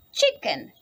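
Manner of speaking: chicken said with a big high leap; high answer word. Shown as a demonstration. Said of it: "Yes, it's chicken".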